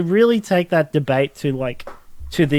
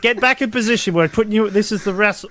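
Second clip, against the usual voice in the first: insistent coach; 5 semitones higher than usual. Retold or imitated. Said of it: "And he's like".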